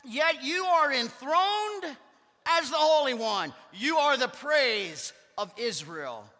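slow, reverent reading of the psalm; solemn scripture reading. Acted. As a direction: read it slowly, like a sacred text. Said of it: "He says".

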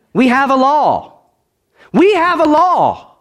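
slow, high, loud repeated proclamation; the crowd insisting on their law; crowd's cry. Acted. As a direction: drive the law home.

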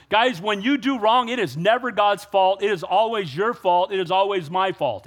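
earnest emphatic sermon line; firm preaching. Acted. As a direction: drive the point home to the crowd.

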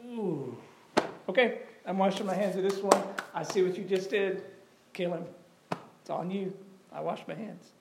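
lightly acted, softly backing off; resigned Pilate. Pilate yielding to the Jewish leaders, lightly voiced, quiet resignation.

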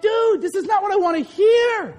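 mock whiny objection; bored listener. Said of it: "You're like".

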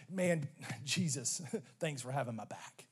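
chuckling through a joking thank-you; laughing mock thanks. Mock grateful quote, laughing.

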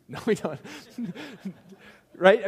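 laughing loudly, then a sharp high rise on right. Real, not acted. Preacher laughing with the congregation over a joke about church. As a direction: laugh off the joke, then check they agree.

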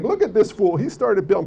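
mocking. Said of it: "it's a mocking, condescending term".

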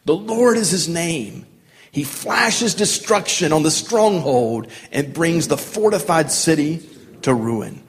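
slow, measured, declamatory hymn; leading a congregation reading aloud; solemn scripture reading. Acted. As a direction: proclaim it in weighty phrases with pauses.

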